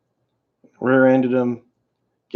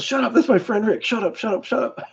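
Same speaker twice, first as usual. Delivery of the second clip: high, hushed mock shushing aunt; aunt hushing; 10 semitones higher, 4 dB quieter than usual. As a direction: shush the kid as the embarrassed aunt. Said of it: "She goes, she goes".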